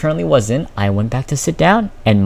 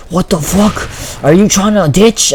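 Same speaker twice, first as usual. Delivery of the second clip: raised, mock-furious teacher voice; going off; 7 semitones higher than usual. Teacher going off on student about ditching, mock angry. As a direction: imitate a teacher blowing up, pitched high. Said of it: "she fucking goes off on me".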